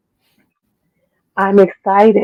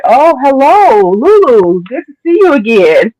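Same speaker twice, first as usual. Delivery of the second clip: Covid as a creepy friend; 6 semitones higher, 5 dB louder, slower than usual. Acted. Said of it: "The Rona be like".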